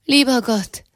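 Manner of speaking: the shock breaking through; rising dismay. A narrator's reading.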